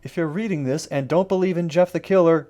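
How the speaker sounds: ordinary delivery, nothing marked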